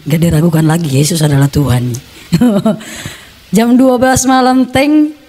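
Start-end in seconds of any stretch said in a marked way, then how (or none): 4.7-5.2 ringing "teng" like a bell; imitated clock chime. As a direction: sound out a midnight clock strike. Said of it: "kan bunyi teng". (tiruan dentang jam)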